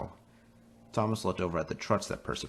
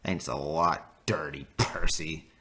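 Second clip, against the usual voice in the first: drawn-out sarcastic thanks; slow, sneering insult; slower than usual. Acted. James sneers at Percy.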